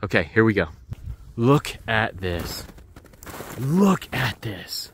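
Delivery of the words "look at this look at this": slow, drawn-out amazement; excited awe. Real, not acted. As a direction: stretch each word out in wonder. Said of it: "I am excited".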